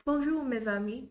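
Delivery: French greeting in a learner's accent. Shown as a demonstration. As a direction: show off a modest French accent. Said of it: "how's my French accent".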